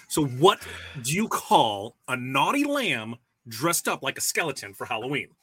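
slow, drawn-out joke setup; milk the setup slowly; telling a dad joke. Acted. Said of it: "It's dad joke time".

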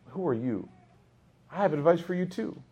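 mock irritation at being advised; acted touchy comeback; irritated. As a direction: push back as if mildly affronted. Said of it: "your nafs right away just feels irritated".

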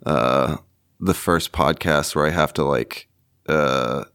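raspy, wheezy voice after smoking; smoker's rasp. Real, not acted. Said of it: "the smoker's rasp".

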